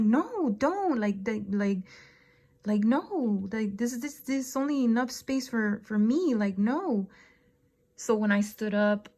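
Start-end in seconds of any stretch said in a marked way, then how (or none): 0.0-7.1 higher, urgent panicked pleading; frantic protest. Retold or imitated. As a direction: shoo him away in a panic. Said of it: "I'm like".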